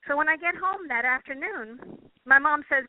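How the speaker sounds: ordinary talk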